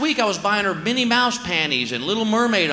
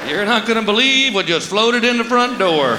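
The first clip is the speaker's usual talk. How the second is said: raised-pitch call across the house; mock alarmed calling; 4 semitones higher than usual. Dad calling to wife about goth visitor, mock alarm. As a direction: call out as if a vampire just walked in.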